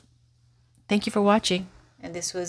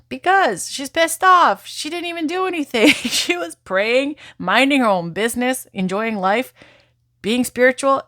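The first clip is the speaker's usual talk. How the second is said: higher, louder, outraged on Medusa's behalf; fired-up defense of a wronged goddess, pitched up; indignant outburst; 6 semitones higher, 5 dB louder than usual. Acted. Voicing Medusa's outrage at injustice.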